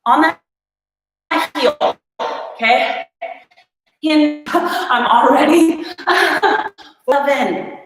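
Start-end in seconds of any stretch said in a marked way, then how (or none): 4.0-7.7 laughing through the words. Real, not acted. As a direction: giggle while counting reps. Laughs mid-set at her count.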